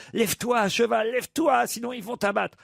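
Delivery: lightly acted desperate plea; urgent pleading. Cochon supplie encore le cheval.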